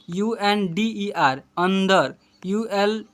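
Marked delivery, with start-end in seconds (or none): 1.6-2.1 अंदर opening on an a vowel; u read as a. Shown as a demonstration. Teacher reads the spelled word to pupils, a sound. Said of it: "यू को अ से पढ़ते हैं".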